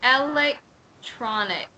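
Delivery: electronic slowly, stress on lek; careful slow model. Shown as a demonstration. Teacher carefully testing her own electronic. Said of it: "Let me see".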